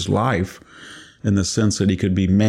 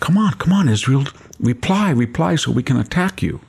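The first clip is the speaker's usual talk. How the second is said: taunting; 5 semitones higher, faster than usual. Retold or imitated. Enemy taunting, thought voiced.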